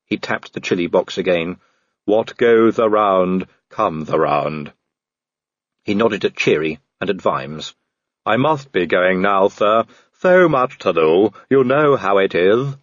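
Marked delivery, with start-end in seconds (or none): 2.1-12.8 deferential Igor henchman; Igor servant. Acted. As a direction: play the obliging Igor. Igor takes his leave.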